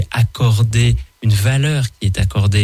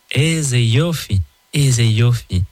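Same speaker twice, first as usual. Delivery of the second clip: Israeli exclamation; slower than usual. Shown as a demonstration. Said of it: "ou s'exclamer en disant".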